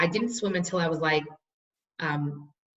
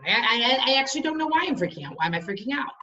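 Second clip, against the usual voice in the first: imitated child; 4 semitones higher than usual. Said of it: "And the child said".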